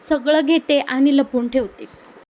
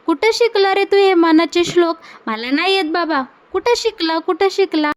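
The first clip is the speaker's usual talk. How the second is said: mock amazement; 4 semitones higher than usual. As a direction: tease him with wide-eyed wonder. He teases Mahipat in amazement. (तो महिपतला चिडवतो, उंच आवाजात नाटकी आश्चर्य)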